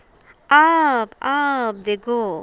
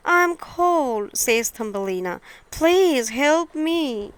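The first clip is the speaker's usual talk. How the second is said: a hint of a cold little girl begging; pleading girl; 2 semitones higher than usual. Thumbelina asking the field mouse for help, mildly pleading.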